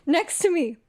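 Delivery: high, squeaky voice through laughter; cracking up, pitch climbing high; helpless laughter. Real, not acted. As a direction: squeeze the words out between laughs. Cracking up at the photo.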